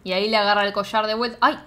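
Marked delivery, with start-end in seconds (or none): 1.4-1.6 high loud scandalized squeal; excited squeal. Real, not acted. Friend squealing loudly at a steamy moment. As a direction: squeal like you can't believe it. Reacting to racy scene.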